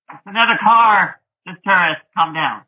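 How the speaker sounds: high, put-on bystander voice; zoo animals. Other zoo animals watching the baboons, high mock bemusement. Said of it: "animals in the zoo were just like".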